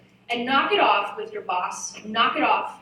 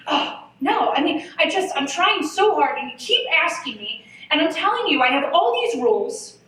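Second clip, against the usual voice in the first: high, louder whiny complaint; whining; 5 semitones higher, 4 dB louder than usual. Retold or imitated. Replying to the new boss in a meeting, whining higher and louder. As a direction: whine and plead in earnest. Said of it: "mortified ... did I whine".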